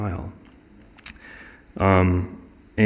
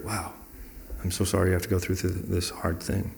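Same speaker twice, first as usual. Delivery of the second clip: softer, commiserating tone; sympathetic; 8 dB quieter than usual. Acted. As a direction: offer quiet sympathy to someone struggling. Acting out sympathy for someone struggling.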